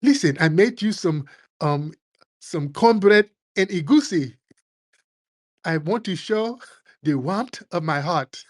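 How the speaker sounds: lightly voiced, sugary sweet imitation; mock mellow friendliness. Humbled immigrant offering food in a mild, sweet mock voice.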